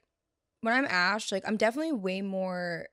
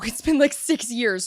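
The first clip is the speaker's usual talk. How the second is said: laughing; 4 semitones higher, 9 dB louder than usual. Real, not acted. Laughing disbelief at old persona.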